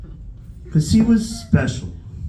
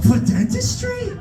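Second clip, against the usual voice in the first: shooting way up high in disbelief on "dentistry"; laughing disbelief; incredulous squeak. Retold or imitated. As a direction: squeal it like you can't believe your ears. Son incredulous at dad's dentist.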